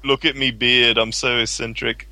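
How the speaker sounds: a hint of a British eccentric; mock Alan Moore. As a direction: send up the bearded writer, lightly. Mocking Alan Moore's beard.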